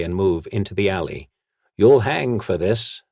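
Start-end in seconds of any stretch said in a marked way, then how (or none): 1.8-3.0 slow, louder blustering threat; pompous blustering threat. Acted. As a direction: puff up and bluster at her. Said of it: "the nobleman blustered".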